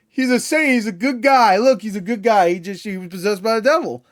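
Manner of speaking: high, loud, overblown defense; mock pleading. Mocking the film defending a killer, high-pitched pleading.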